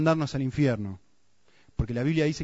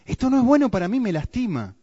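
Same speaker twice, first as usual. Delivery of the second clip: pained realization; 9 semitones higher, 5 dB louder than usual. Retold or imitated. Sinner realizing the pain.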